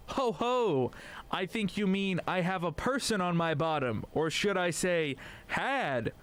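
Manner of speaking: clipped wartime posh. Acted. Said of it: "The duck responds".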